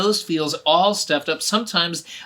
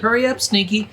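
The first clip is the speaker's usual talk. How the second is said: a hint of an urging teacher, higher and louder; 7 semitones higher, 6 dB louder than usual. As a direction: hurry the child along. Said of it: "the teacher said".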